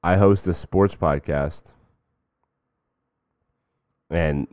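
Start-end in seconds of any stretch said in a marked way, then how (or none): 0.0-1.7 slow, drawn-out proud fan; slow mock fan pitch. Fan repeating his podcast pitch, slow and smug. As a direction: stretch it out smugly. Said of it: "The guy says to him".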